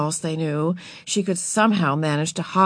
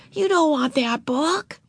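dismay; 9 semitones higher, slower than usual. A narrator's reading. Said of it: "whispered Beezus in dismay".

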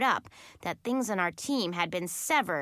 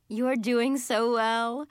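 slow, drawn-out encouragement; reassuring; 2 semitones higher, 3 dB louder, slower than usual. A narrator's reading. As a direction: assure them sweetly, taking your time. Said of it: "Mistress Carol assured us".

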